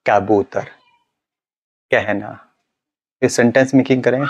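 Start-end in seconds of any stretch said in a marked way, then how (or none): 0.1-2.3 कबूतर said slowly with the face stretched; slow stretched words. Shown as a demonstration. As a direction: stretch the cheeks and say कबूतर calmly. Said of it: "फिर आप शब्दों के practice करें".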